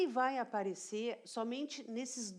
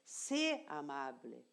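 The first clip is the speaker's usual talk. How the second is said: slow demo; 5 semitones lower, slower than usual. Shown as a demonstration. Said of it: "eu vou dizer".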